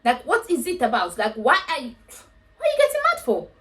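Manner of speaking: rising disbelief, peaking very high; baffled viewer challenging the fuming guy, shrill disbelief; incredulous. Retold or imitated. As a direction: demand why he's mad, climbing in pitch. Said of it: "It was like".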